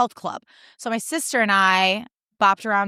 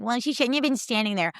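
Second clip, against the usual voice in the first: higher, snotty mimic of the host; mocking the host; 3 semitones higher, 3 dB quieter than usual. Speaker mocking the host's excuse, snotty and higher. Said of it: "the audacity of that host".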